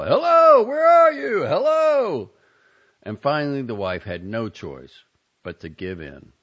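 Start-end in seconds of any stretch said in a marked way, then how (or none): 0.0-2.3 very high, loud urgent call. A narrator's reading. Husband calling urgently through the house, loud high call. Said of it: "continued to call".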